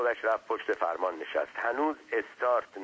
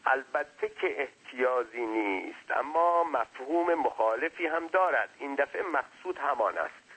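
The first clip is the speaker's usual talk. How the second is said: wordy servant; 5 semitones higher than usual. Acted. Servant splitting hairs with his master, mildly pedantic.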